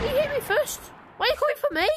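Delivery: put-on tattling kid in a role play, high and whiny; whiny child.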